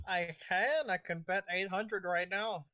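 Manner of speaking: loud defiant bid. Acted. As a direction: push back loudly. Rival bidder answers taunt.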